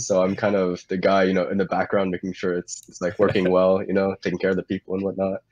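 stuffy, chesty cold voice; congested voice. Real, not acted. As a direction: talk through a congested chest. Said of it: "I'm, I'm congested".

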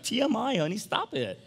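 high, pleading "stop it" to his wife; mock exasperated protest. Husband to oversharing wife, high mock-exasperated protest. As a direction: act out begging her to stop oversharing. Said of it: "I'd be like".

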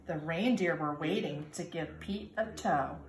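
put-on lively storybook reading for kindergarten kids; reading to children. A narrator's reading. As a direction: read it like storytime, sing-song and bright. Reads picture book to children.

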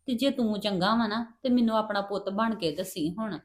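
mother's soft confiding voice to her son; hushed secret talk. Acted.

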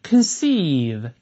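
drawn-out, clearly projected model word; read aloud clearly. Shown as a demonstration. Teacher leads students reading a hard word, aloud and clear. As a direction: read it out for the class to follow. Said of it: "我们大声读一遍".

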